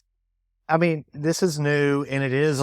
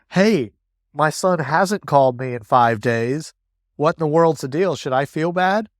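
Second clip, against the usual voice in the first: worried parent asking; 3 semitones higher, 5 dB louder than usual. Retold or imitated. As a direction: play an anxious dad venting to the assistant. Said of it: "So it's like".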